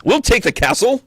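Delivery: high, loud pirate growl; gruff pirate knight. Retold or imitated. Tarot reader voicing the impetuous Knight of Swords, roaring. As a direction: bellow it like a reckless knight charging. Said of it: "kinda like".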